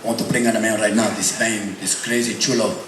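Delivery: hyped arena announcer, stretched final shout; rock announcer intro. Acted. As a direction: build up and roar the name.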